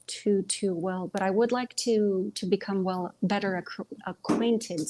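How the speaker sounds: stumbling, restarting mid-word; tripping over words. Real, not acted. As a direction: trip over the words and correct yourself. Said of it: "I'm tripping over my own mouth".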